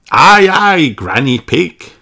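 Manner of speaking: high, loud sailor-style cheer; eager reply. A narrator's reading. The family answers Granny Pig, high and loud. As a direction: answer like keen little sailors. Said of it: "everyone replies".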